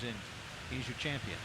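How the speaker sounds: ordinary talk, nothing marked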